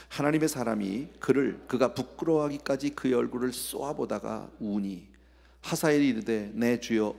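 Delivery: steady, measured reading aloud, low-pitched; even recitation with firm phrase openings; formal scripture reading. Acted. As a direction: read the Bible passage out to the congregation.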